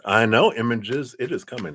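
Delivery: talking round a cough drop; mouth full. Real, not acted. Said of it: "I got a thing in my mouth here".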